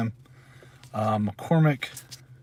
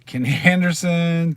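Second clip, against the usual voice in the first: laughing; 5 semitones higher, 5 dB louder than usual. Real, not acted. Laughs mid-name.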